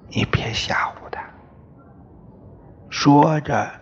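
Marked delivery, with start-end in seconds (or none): 0.1-1.2 quick, soft murmur of gentle reproach; hushed reproof. Acted. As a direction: chide him under your breath, softer and lower. Mother gently chides husband over child. (压低声音轻声责备)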